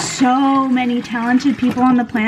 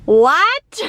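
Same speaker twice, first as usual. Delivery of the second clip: surprised; 5 semitones higher, 6 dB louder than usual. Real, not acted. Shocked at an eleven-dollar price.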